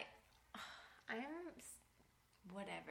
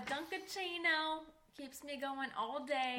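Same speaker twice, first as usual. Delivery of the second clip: slow mock Boston accent; 3 semitones higher, slower than usual. Quoting a Dunkin' line in a slow Boston accent. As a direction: drawl it like a Boston ad. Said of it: "that's a lady on YouTube".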